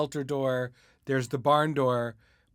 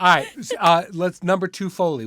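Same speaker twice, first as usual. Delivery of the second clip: calling out; 7 semitones higher, 11 dB louder than usual. Real, not acted. Host calls out next segment.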